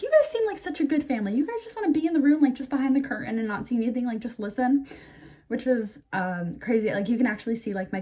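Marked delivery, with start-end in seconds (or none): 0.0-4.9 higher, quick imitation of a nurse; friendly nurse's role. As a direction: play the nurse making an offer, pitched up and fast. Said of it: "the nurse said that, she was like".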